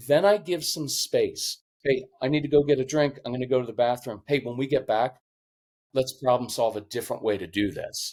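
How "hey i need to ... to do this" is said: level, even, brisk matter-of-fact delivery. Speaker demonstrating what to say when stepping away during frustration, even matter-of-fact tone. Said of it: "even matter of fact tone".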